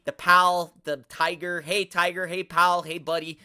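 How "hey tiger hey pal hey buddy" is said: louder, patronizing greeting; mocking a patronizing commenter; mock condescending. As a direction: mimic a smug stranger. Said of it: "Don't come at me with the buddy".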